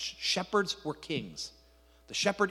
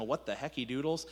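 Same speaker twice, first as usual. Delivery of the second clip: mock baffled; 4 semitones lower, 5 dB quieter than usual. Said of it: "as Elijah says".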